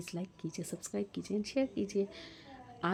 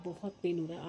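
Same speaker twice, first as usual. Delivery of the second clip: talking through tooth pain. Real, not acted. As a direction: repeat it through sore teeth. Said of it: "आवाज़ भी नहीं निकल रही". (दर्द में धीमी आवाज़ में दोहराना)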